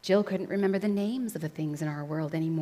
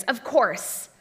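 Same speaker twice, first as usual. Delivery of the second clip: loud, joyful realisation; elated princely cry; cried out; 5 semitones higher, 7 dB louder than usual. A narrator's reading. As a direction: exclaim it with rising fervour. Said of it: "cried the prince".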